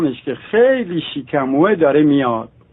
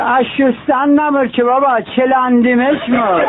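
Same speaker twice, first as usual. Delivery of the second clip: Qazvini dialect; 6 semitones higher than usual. Acted. Qazvini man's punchline.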